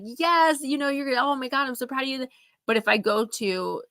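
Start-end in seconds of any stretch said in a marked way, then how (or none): 0.0-2.3 mom's voice, higher and fast with excitement; gushing mom. Retold or imitated. Talking to her daughter about a new book, an excited high gush. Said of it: "she's like".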